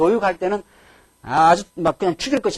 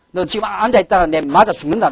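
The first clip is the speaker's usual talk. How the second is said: loud, heated threat; mock-angry father's loud threat; 3 semitones higher, 6 dB louder than usual. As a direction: threaten like a furious dad. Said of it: "집에서 화가 한번 나면은".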